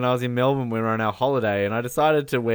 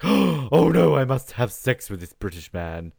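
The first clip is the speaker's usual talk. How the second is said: mock conflicted; slower than usual. Woman torn over sleeping with Bond, mock conflicted. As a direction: feign reluctant surrender. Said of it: "she's, like, conflicted".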